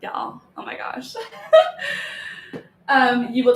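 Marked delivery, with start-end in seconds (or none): 0.0-1.1 whispered through laughter; breathy laugh. Real, not acted. Laughing at her dog. 1.2-2.6 a high burst of laughter. Real, not acted. Laughing at her dog.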